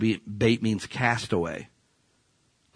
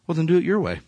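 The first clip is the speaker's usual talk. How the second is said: God's calm verdict; 4 semitones higher, faster than usual. Acted. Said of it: "Here's what God says".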